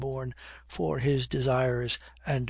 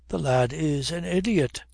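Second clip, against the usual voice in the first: dismissive; 2 semitones higher, 5 dB louder than usual. Acted. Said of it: "said Sunderland with a shrug".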